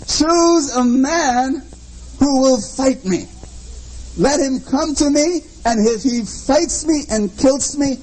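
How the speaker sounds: lightly voiced giant's challenge, slow and drawn out; a hint of Goliath's booming dare. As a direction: boom it out like a taunting giant. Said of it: "in a booming voice".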